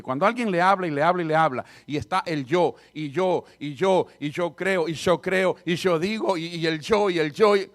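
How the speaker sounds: rattling off me, me, me; hammed-up boastful chatter; mock boastful talker. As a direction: lampoon a self-centred braggart. Mocking a self-centred talker.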